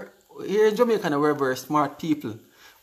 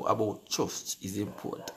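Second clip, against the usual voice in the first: lower, softer words with a laugh; laughing through words; 10 semitones lower, 11 dB quieter than usual. Real, not acted. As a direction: read it while chuckling. Laughing while reading comment.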